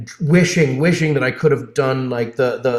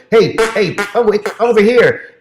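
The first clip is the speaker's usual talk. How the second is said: louder, higher attention-getting call; 8 semitones higher, 5 dB louder than usual. Retold or imitated. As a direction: imitate a character hailing someone over. Retelling hearing his character call out.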